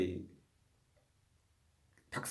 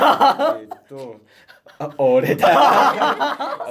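slow, drawn-out words through laughter; laughing; 7 semitones higher, 7 dB louder, much slower than usual. Real, not acted. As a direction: laugh through a sheepish realization. Realizes he's the one to blame.

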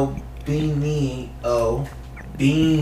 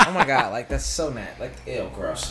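put-on valley girl; 3 semitones lower, 4 dB quieter than usual. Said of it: "like, White Valley Girl".

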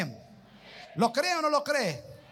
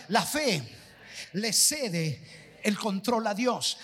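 slower repeat; 2 semitones lower, slower than usual. Shown as a demonstration. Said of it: "Otra vez".

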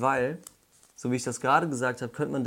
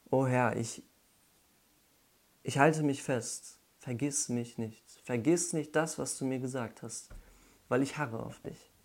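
desperate plea. Retold or imitated. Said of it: "dieses Verzweifelte".

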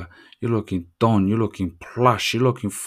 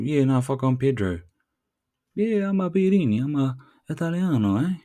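higher-pitched fake Italian accent; mock Italian accent; 4 semitones higher than usual. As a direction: improvise a chatty Italian accent. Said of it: "dupe someone that you're Italian".

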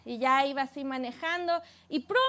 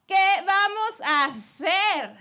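frightened servant; 5 semitones higher, 6 dB louder, much slower than usual. Acted. Frightened servant asks Elisha.

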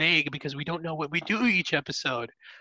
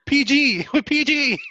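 playful laughing reminder to stay clean; laughing scold; 8 semitones higher, 5 dB louder than usual. Real, not acted. Laughing warning to keep PG.

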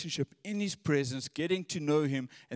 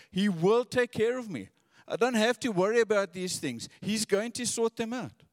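preaching with conviction. Acted. Preacher voicing David's trust to the church, building conviction. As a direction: preach it rising into certainty. Paraphrases psalm with rising conviction.

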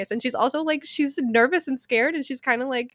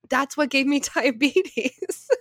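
laughing; 4 semitones higher, slower than usual. Real, not acted. Retelling mom's absurd claim.

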